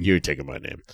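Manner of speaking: low Australian accent impression; Rhea. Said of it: "Was that your best Australian accent?".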